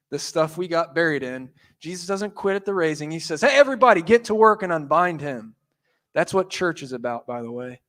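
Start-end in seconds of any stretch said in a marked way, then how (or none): 3.4-5.5 rally everyone to work; calling out. Retold or imitated. Jesus calls out to crowd.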